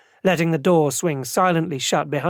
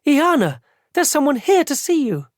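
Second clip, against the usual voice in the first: calling out; 11 semitones higher than usual. Acted. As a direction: call her from the stage. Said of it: "saw me and called".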